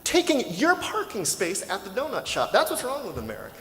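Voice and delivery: mock fury at the billionaire's car, spat out fast; retold furious rant. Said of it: "I'm so furious".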